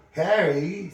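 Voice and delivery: high, loud shocked exclamation; scandalised, lifted voice. A narrator's reading. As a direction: say the name in shock. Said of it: "sounding shocked".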